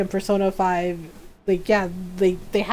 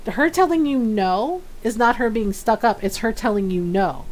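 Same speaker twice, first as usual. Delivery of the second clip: lightly voiced stern mom; a hint of mom telling someone off. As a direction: retell it like a scolding mother. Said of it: "I got the mom voice".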